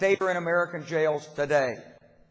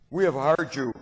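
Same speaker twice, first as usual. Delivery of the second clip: put-on Polish accent; 3 semitones lower, 5 dB louder than usual. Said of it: "in his Polish accent".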